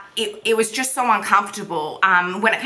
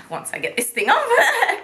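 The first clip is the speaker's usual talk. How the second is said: laughing; 13 semitones higher than usual. Real, not acted. Laughs while struggling with trainer.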